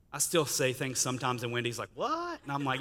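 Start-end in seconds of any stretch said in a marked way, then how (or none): 1.9-2.4 high-pitched, drawn-out disbelieving "what?"; mock disbelief, pitched way up; incredulous what. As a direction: imitate a shocked wife, voice shooting up high. Wife reacts in disbelief, retold.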